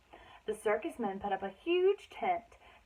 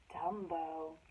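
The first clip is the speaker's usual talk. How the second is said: much softer, lower and drifting into sleep; sleepy mumble; 6 semitones lower, 11 dB quieter than usual. Acted. Ringmaster answering the mouse in his sleep, a low fading mumble. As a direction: mumble it half asleep. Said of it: "mumbled the ringmaster".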